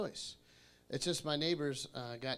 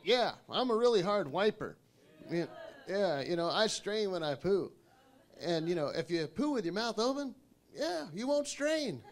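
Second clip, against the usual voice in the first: explaining plane passenger; 4 semitones higher than usual. Retold or imitated. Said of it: "the guy started to explain".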